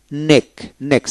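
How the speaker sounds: "নেক" ending in one k sound; silent c. Shown as a demonstration. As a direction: model "নেক" with no separate c sound. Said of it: "সি উচ্চারণ হবে না".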